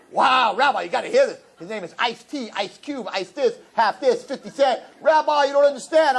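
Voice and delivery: put-on high, excited teen gushing; excited girl. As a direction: gush about rappers. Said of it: "she's like".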